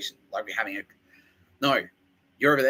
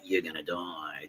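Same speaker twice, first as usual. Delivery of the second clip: mock ominous threat; 5 semitones lower, 7 dB quieter, slower than usual. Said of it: "all implying like".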